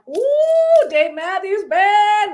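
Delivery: high, drawn-out squeal of delight; excited squeal. Retold or imitated. Thrilled fan squealing over concert news. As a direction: gush over the band name. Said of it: "I'm like".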